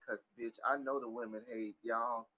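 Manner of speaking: loud, drawn-out scolding tirade; emphatic, fed-up telling-off; exasperated rant. Retold or imitated. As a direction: lay into all of them, raising your voice. Ranting at men about hair.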